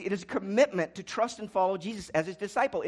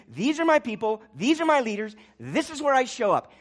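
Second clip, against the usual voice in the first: God's proud declaration; 6 semitones higher, 11 dB louder than usual. Acted. God claiming his church.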